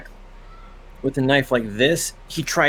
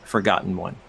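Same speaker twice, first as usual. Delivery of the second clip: 1 slow solemn reading; 4 semitones lower, slower than usual. Acted. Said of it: "And it says".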